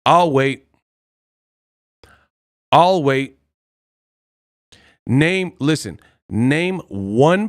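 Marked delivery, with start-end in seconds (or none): 0.0-0.6 loud, drawn-out taunt; pointed, smug challenge to name someone. Real, not acted. Repeats challenge after long silence. 2.7-3.4 loud, drawn-out taunt; pointed, smug challenge to name someone. Real, not acted. Repeats challenge after long silence.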